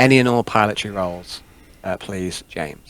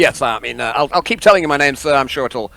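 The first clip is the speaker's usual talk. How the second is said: lightly voiced deferential comms officer; a hint of an eager underling correcting the boss; Reynolds; 4 semitones higher, 4 dB louder than usual. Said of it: "Reynolds, sir".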